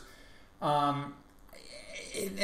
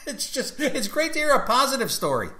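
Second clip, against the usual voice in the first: laughing; 8 semitones higher, 4 dB louder, faster than usual. Real, not acted. Laughing after his joke.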